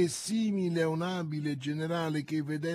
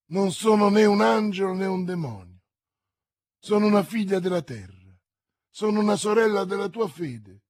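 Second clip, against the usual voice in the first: 1 fervent plea; 5 semitones higher, 6 dB louder than usual. Acted. Milady's fervent plea to Felton.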